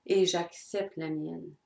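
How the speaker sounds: slow, calm and sincere; calm acceptance. Pretend. Speaking to the one who hurt her, calm and accepting. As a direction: say it slowly, like making peace. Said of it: "c'est de dire".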